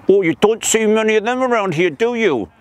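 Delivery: put-on voice of a frog playing innocent; change the voice to hide the wide mouth; frog in disguise. Frog pretends to the tiger he is another, disguised voice.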